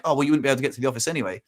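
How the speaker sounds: quick, offhand retold dismissal; matter-of-fact brush-off; blunt. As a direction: rattle it off bluntly, imitating her. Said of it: "she was just so blunt".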